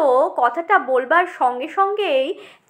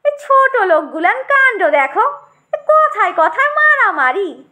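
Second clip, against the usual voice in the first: disdainful grumble; 4 semitones higher than usual. Acted. Brinjal scorns brawlers to tomato.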